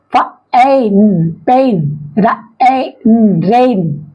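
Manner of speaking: "पेन" in separate sounds with long "ए", then whole; sounding out AI. Shown as a demonstration. Teacher showing long A, "पेन" and "रेन" spelt out sound by sound. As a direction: stretch "ए" and "न", then blend "रेन". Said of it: "इसका उच्चारण क्या होगा".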